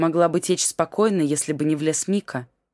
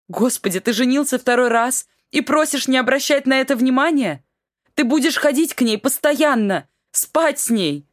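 high tearful protest; wife sobbing at the second marriage, high and tearful; sobbing outburst; 8 semitones higher, 4 dB louder than usual. Acted. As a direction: break down in tears. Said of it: "Новые рыдания прервали Альбики".

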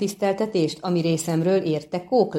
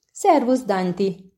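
cheerful greeting; 2 semitones higher, slower than usual. Acted. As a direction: wave and call out gladly to an old friend. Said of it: "szólt Kökörcsin vidáman".

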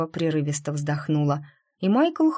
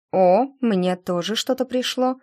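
bright exclamation, pitched up and louder; exclaiming; 5 semitones higher, 4 dB louder than usual. Acted. Nastya spotting the message on her phone, exclaiming. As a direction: call it out in surprise. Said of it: "воскликнула Настя".

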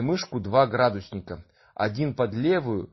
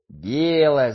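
loud delighted cry; joyful shout; 4 semitones higher, 6 dB louder than usual. Acted. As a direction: shout it out with joy. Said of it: "закричал бородатый мельник".

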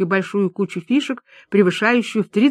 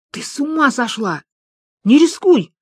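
yank her back from the bet; alarmed scolding; 7 semitones higher than usual. Acted. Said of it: "одёрнул товарку Лиза".

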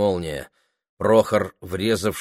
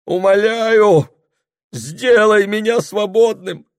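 higher, louder slow desperate plea; desperate begging; 13 semitones higher, 8 dB louder, slower than usual. A narrator's reading. Husband on his knees before his wife, loud desperate begging. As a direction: beg on your knees. Prokhor kneels and begs.

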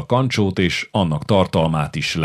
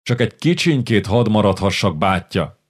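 put-on mild boyish begging; pleading. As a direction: coax an elder brother gently. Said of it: "kérlelte Iván".

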